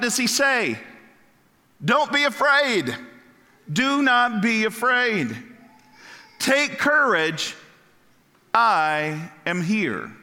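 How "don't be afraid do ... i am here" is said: calm the terrified disciples, slowly; reassuring Jesus. Acted. Jesus speaks to frightened disciples.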